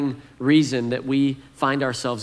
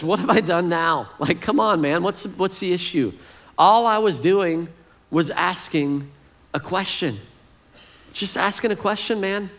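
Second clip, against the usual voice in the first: defensive younger brother; 5 semitones higher than usual. Retold or imitated. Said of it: "David does what I've done".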